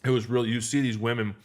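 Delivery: talking while chewing food; mouth full. Real, not acted. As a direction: speak around a mouthful. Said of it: "excuse me, I'm chewing food in my mouth".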